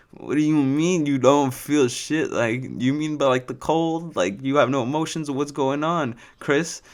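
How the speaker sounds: slow, disbelieving questions; baffled and amused, drawn out; incredulous. Retold or imitated. Incredulous reply to stoned friend.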